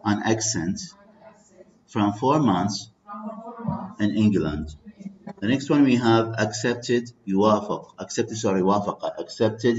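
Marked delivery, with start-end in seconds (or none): 0.0-4.8 short phrases, a long pause after each; read-along model. Shown as a demonstration. Teacher reading a sentence together with students, in spaced phrases. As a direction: model it in chunks for repeating. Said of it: "let's read it together".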